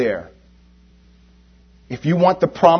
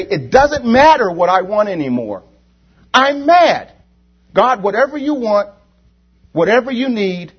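loud, high-pitched impassioned cry to God; mad, fervent plea; 7 semitones higher, 6 dB louder than usual. Acted. Preacher acts out a believer mad at sin, fervent loud plea. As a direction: plead fiercely, fed up with sin. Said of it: "Get mad at that sin and say".

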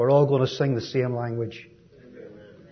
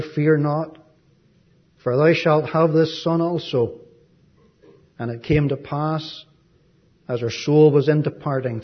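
measured, declaimed Bible reading; formal reading with pauses between phrases; scripture reading. Acted. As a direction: read the verses out to a congregation, phrase by phrase. Reads scripture aloud to congregation.

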